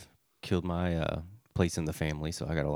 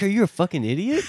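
high, loud mock exasperation; exasperated guy; 13 semitones higher, 8 dB louder than usual. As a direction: play the fed-up stranger, voice pitched up. Friend voicing the wing guy.

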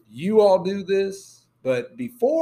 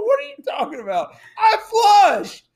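fast baffled denial; 5 dB louder than usual. Retold or imitated.

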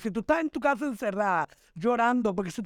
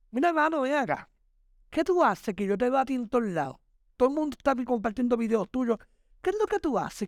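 higher-pitched imitation of an astonished admirer; amazed questioning; 3 semitones higher than usual. People who see her everywhere stop her, amazed. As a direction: call over a buddy, voice jumping up in curiosity.

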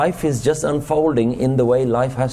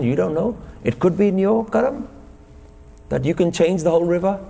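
mock eager advice; 3 semitones higher than usual. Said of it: "somebody gets a really good idea and says".

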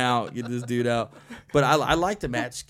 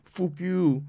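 mock Irish accent; 9 semitones higher, 11 dB louder, much slower than usual. Continuing the Irish impression.

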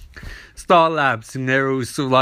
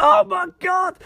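panicked shout. Retold or imitated. Barry covered in goo, shouting in high panic. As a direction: shout it in shock as the goo lands. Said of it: "and he's like".

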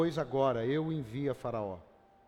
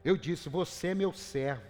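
scripture reading in God's voice; 2 semitones higher than usual. Acted. Reads Isaiah 41 as God speaking.

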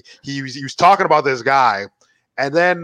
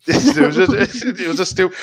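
talking through a laugh, higher pitched; 5 semitones higher than usual. Real, not acted. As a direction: laugh your way through the words. Cracking up over the joke.

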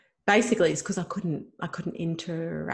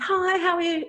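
friendly greeting; 12 semitones higher, 5 dB louder than usual. Retold or imitated.

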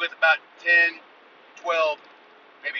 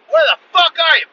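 high, explosive battle shout; Rambo yell; 13 semitones higher, 12 dB louder than usual. Retold or imitated. Man storming out of his Jeep at raccoons, Rambo yell. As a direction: bellow it like a charging action hero. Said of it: "come out of there like fucking Rambo".

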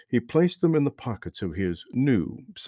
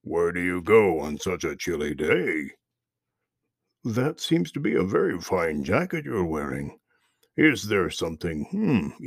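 loud gravelly voice; 3 semitones lower than usual. Acted. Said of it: "a loud, gravelly voice".

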